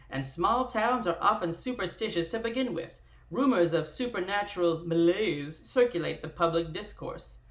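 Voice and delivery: vintage radio announcer narration; dramatic 1920s radio narrator; old-time radio voice. Acted. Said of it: "old-time radio voice".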